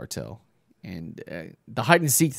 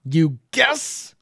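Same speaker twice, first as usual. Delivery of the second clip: louder, high rising repeat; incredulous echo; 6 semitones higher, 5 dB louder than usual. Real, not acted. Commentator echoing the line, incredulous. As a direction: echo it back in disbelief.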